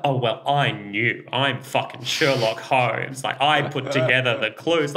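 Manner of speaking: smug know-it-all, slowing on Sherlock Holmes; smug mockery. Shown as a demonstration. The wrong way to react, smug and mocking. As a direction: gloat like a detective. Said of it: "not the".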